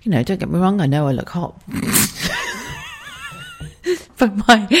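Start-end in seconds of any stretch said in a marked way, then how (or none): 1.7-4.0 a high suppressed giggle squeaking out; stifled laugh. Real, not acted. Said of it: "when I'm trying not to laugh".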